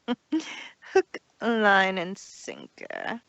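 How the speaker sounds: gloating villain. Acted. Villain gloats over her deception.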